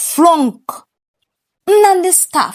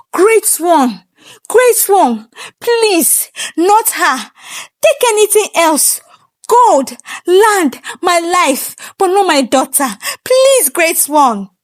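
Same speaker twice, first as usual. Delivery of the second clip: tearful begging; 3 semitones higher than usual. Acted. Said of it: "shaking, tears in his eyes".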